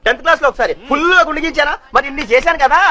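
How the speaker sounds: indignant complaint. Acted. Devotee reminding the Swami of hill climbs, indignant complaint. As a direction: argue your case, listing every effort.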